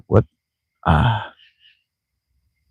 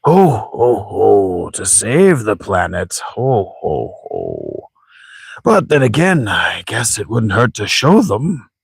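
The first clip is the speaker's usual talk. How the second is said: lightly voiced jolly old man; theatrical old sage with lilting pitch; chuckling old grandfather; 3 semitones higher, much slower than usual. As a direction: chuckle slowly, then relent.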